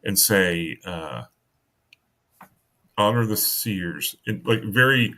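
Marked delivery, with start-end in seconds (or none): 3.0-4.2 slow, choppy "Honor the seers". Acted. Timid old man saying an oath to the Moon Knight, choppy. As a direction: lightly break up "Honor the seers" word by word. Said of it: "uh, choppy".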